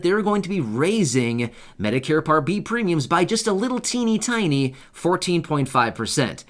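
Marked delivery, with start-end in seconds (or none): 3.1-6.4 sarcastic. Real, not acted. Host telling viewers about the premium hike, sarcastic. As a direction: play down the number with dry sarcasm, slowing on it. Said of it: "Yeah, I'm being sarcastic".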